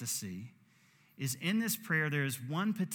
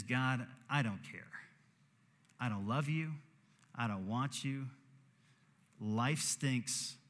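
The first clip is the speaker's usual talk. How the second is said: cold indifference; slower than usual. Retold or imitated. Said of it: "you could be a cold person".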